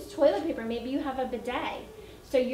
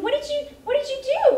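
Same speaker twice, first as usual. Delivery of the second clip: surprised question; 13 semitones higher, 8 dB louder than usual. Retold or imitated. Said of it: "And I said".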